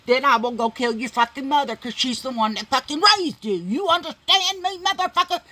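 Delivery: high, loud furious warning; retold raging threat. Threatening the abuser to his face, high furious yelling. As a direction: threaten him at a pitch of fury.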